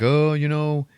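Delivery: high-pitched teasing jock; bully taunt. Retold or imitated. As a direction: sneer it up like a smug teen bully. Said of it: "And they're like".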